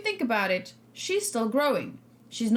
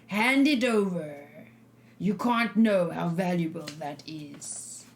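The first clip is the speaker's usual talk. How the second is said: bone rattle; 6 semitones lower, slower than usual. Acted. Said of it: "I'm trying to do creepy skeleton face. Voice".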